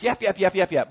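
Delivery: quick run of mock barks; little dog yapping, lightly imitated; yappy dog barking. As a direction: imitate a yippy dog's rapid yaps. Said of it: "barking all the time".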